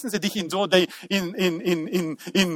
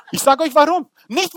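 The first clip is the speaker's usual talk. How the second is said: ordinary delivery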